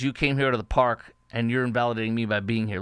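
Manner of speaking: hammed-up whiny protester; mock aggrieved kid. Host mocking the protester's complaint to his audience, mild mock whine. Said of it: "'cause he says".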